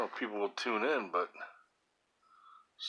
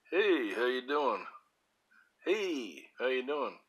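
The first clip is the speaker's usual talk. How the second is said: a slightly higher, slow goofy greeting; silly character voice; 4 semitones higher, slower than usual. Pretend. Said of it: "That's a character".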